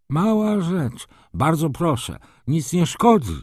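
high-pitched, eager brushing-off; effusive baron. Acted. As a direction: wave the apology away in a high voice. Baron eagerly waves away the apology. (wysoki, skwapliwy głos barona)

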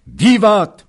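high, loud shouted hurrah; shouted cheer. A narrator's reading. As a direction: roar it out with the crowd. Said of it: "powtórzyli oficerowie".

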